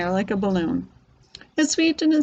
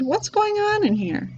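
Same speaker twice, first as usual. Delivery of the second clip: startled; 11 semitones higher than usual. A narrator's reading. Father startled entering room.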